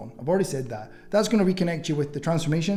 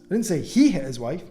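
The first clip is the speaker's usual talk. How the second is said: he lifted and stressed, ending on a rise; 4 dB louder than usual. Shown as a demonstration. Coach demoing Hormozi's sentence, stress on he. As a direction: lean on the word he. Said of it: "same sentence with completely different tone".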